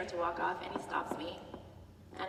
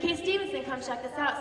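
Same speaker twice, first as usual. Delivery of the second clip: calling out again; 5 semitones higher than usual. Retold or imitated. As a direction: call him over once more. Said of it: "He's like".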